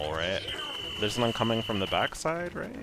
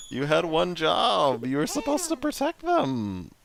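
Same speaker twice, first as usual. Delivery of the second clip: loud, high, laughing outrage; frantic yelling; 8 semitones higher, 6 dB louder than usual. Real, not acted. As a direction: shriek at the useless pet.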